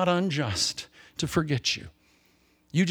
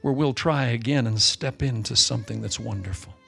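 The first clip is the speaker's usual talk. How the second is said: closing prayer; 2 semitones lower than usual. Acted. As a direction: pray over the congregation, unhurried and fervent.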